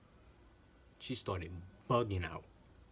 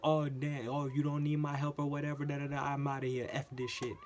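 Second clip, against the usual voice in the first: louder mock outburst; retold storming off; 4 semitones higher, 4 dB louder than usual. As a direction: toss off her angry exit line. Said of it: "she basically like".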